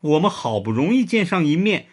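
mild sorrowful lament; sadly. A narrator's reading. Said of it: "伤心地说".

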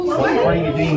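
lightly dropped voice; understated low-voiced question; low natural voice. Shown as a demonstration. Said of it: "เผลอพูดเสียงแบบปกติตอนเสียงต่ำ".

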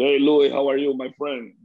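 lightly imitating a big strong voice; a hint of a hearty general manager greeting; big booming voice. General manager calling with a mild big-voiced hello. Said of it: "Tenía una vocesota así, gran, fuerte".

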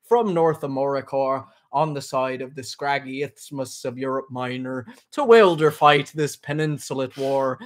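slow, measured dramatic reading; literary read-aloud. Acted. Host reading Finnegans Wake to viewers, slow recitation. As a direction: read it out slowly, weighing each odd word.

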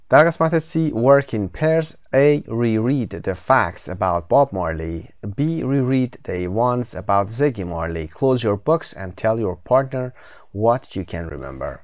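slow, careful reading of the task; slow textbook reading. Shown as a demonstration. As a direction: read the instructions out slowly for learners. Teacher reads textbook instructions.

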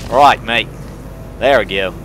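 put-on Australian with a punchy start; attempted Australian accent. Player retrying the accent, tentative Australian. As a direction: try Australian, slipping toward Southern. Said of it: "That, no, going back into Southern".

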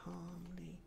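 hushed self-calming whisper; whispered calmly. Real, not acted. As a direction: breathe the word out to calm yourself. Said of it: "I said calmly".

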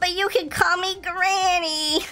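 a hint of a kindly grandma; granny voice. Granny greeting the shelter pets sweetly.

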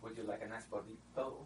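hushed mock Spanish accent on the food words; very soft, teasing Spanish-accented offer. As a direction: softly imitate a mom's sudden Spanish accent. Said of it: "suddenly she gets a Spanish accent".

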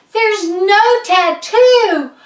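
high, loud, drawn-out exclamation; shocked discovery. Acted. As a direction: cry out in alarm at what's missing. Shocking discovery about the doll.

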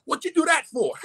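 imitating the bishop's commanding tone, pitched well up; hammed-up authoritative big-brother voice. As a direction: throw it out like a stern elder's reproach. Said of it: "that authoritative voice".

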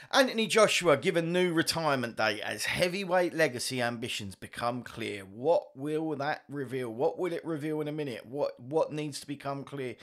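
lightly put-on news narrator read; half-joking documentary voice; mock narrator. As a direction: read the headline like a self-important narrator. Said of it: "I'm trying to be like some sort of narrator".

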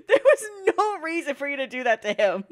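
loud, upset protest through laughs and tears; tearful scolding. Real, not acted. Upset scolding on character's behalf.

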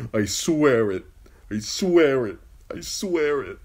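building oath. Acted.

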